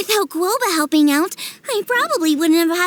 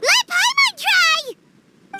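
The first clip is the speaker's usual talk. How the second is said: eager excitement; 9 semitones higher, much slower than usual. Acted. Paimon eager about new recipe.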